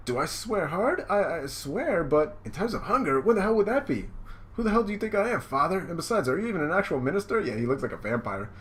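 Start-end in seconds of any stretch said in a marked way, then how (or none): 0.1-7.4 high, indignant comic protest. Acted. Groom challenges the minister, indignant and high. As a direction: protest in disbelief, pitched well up.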